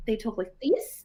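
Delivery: put-on Kiwi accent; New Zealand accent. Shown as a demonstration. Demonstrating Kiwi versus Australian to a friend, New Zealand accent. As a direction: show how a New Zealander talks. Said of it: "New Zealanders".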